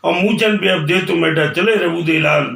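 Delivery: measured, rhythmic poem delivery; verse recitation. Acted. Poet opening with village verse, rhythmic recitation. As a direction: recite each line to its rhyme.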